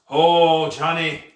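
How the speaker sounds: loud pirate roar. Acted. Ghost pirate roars for the tavern keeper again. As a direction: roar out the name. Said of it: "he roared again in his deep, rumbling voice".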